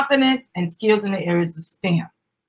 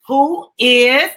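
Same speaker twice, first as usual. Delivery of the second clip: excited yell; 5 semitones higher, 5 dB louder than usual. Acted. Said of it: "she yelled with excitement".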